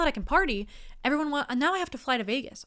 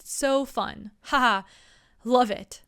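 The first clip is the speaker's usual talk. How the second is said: fake laugh; 2 semitones higher, 5 dB louder, slower than usual. Shown as a demonstration. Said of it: "say, like".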